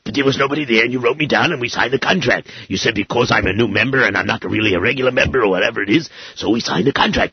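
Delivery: high, loud, indignant protest; rising outrage at the overbooking; angry. Acted. Customer outraged over double booking.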